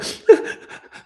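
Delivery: mock breathy sobbing; fake cry. Showing fellow listeners the fake cry not to give, mock sobs. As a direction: put on a little fake cry. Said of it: "don't give me no fake Erica Kirk cry".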